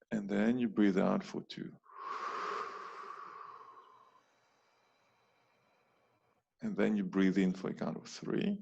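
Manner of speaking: calm, measured breathing instruction with long pauses; guided breathing demonstration. Shown as a demonstration. Coach showing listeners three breathing counts, calm and measured.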